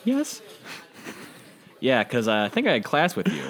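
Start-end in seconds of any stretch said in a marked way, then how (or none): 0.0-0.4 put-on high, prim British young woman; a girl's clipped British yes, pitched up. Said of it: "British, a little bit higher".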